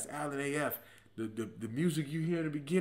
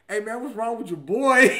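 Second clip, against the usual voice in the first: mildly raised, baffled friend's voice; puzzled friend; 9 semitones higher, 11 dB louder than usual. Retold or imitated. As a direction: ask it like a confused square. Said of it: "my man was like".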